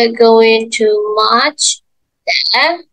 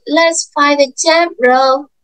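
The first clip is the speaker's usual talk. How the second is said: slower and higher for little ones; reading to a toddler; 4 semitones higher, slower than usual. Shown as a demonstration. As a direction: draw out the jump rope for a toddler.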